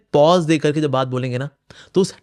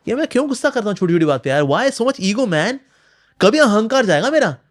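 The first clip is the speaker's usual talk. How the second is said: self-scolding; 6 semitones higher than usual. Retold or imitated. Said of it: "ये गुस्से का सही यूज़ है".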